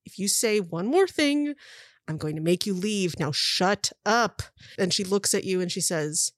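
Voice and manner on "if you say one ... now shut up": lightly voiced stern warning; slow it down and land each word; stern woman captor. Woman warning her bungling partner, slow and stern. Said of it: "the other woman just looks at him and is like".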